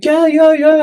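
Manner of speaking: put-on high-pitched French girl agreeing; eager high yeses with a French accent. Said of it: "your French accent is so good".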